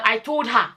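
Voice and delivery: "her" said as an open "ha"; Nigerian pronunciation. Shown as a demonstration. Mother talking as they do in Nigeria, "her" said as "ha". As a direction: end on "her" opened to "ha". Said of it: "in Nigeria, we say".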